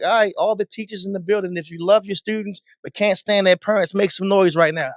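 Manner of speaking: conversational party-host call; talking, not screaming. Acted. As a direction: work the crowd without yelling. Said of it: "He's talking".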